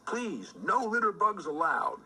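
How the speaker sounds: high, perky little critter voice; chirpy little cartoon voice; squeaky character voice. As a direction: pipe it up like a tiny bug. Character voice at picnic.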